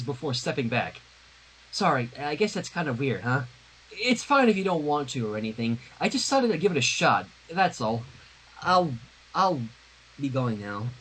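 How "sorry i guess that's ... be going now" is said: a hint of Twilight, embarrassed and wilting; Twilight backing off. Reader voicing Twilight backing away from Sunset, hurt.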